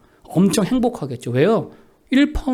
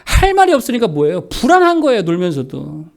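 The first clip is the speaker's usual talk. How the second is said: forceful preaching; 4 semitones higher, 5 dB louder than usual. Real, not acted. Preaches the idle bee example.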